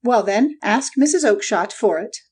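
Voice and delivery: high-pitched irate salesman's outburst; angry shout. A narrator's reading. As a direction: rail at a pest in a high character voice. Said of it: "he shouted".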